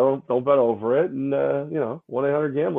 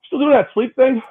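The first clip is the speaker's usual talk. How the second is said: quoting acquaintance; 12 semitones higher, 5 dB louder than usual. Retold or imitated. Retold guy asking about sleep.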